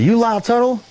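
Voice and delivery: high-pitched imitation of a woman customer; high questioning mimicry; a singer. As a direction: pitch it way up as the girl asking.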